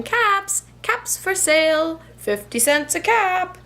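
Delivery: high sing-song vendor call; calling out wares. Acted. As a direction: call out your caps to the street.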